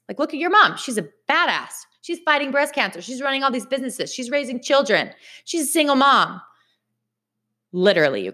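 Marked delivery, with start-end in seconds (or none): 0.1-6.4 higher-pitched retold self-reproach; self-scolding inner voice. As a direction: pile up the reasons, each one pitched high. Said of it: "what I told myself".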